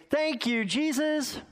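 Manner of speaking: put-on high, sing-song old lady's thank you; mock old woman praising Jesus; old woman's thanks. Old woman's daily porch prayer.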